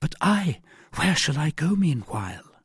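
high-pitched woman's question; worried heroine. A narrator's reading. Wife asks her rescuer where to hide, worried. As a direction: ask it lifted and uncertain.

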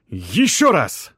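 slow, loud straining call; drawn-out heave shout. A narrator's reading. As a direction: haul with the word. Lifting the slab.

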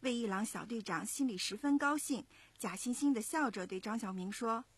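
put-on lively storytelling to young listeners; story narration. A narrator's reading. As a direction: narrate clearly and expressively, like a children's story. 妈妈朗读故事旁白. (讲故事的旁白)

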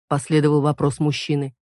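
ordinary delivery

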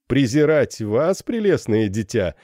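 indulgent captain, stressing "прелестное" with a falling tone; condescending gallantry. Acted. Captain answers the frightened girl with condescending gallantry. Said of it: "в тоне снисходительной и учтивой галантности".

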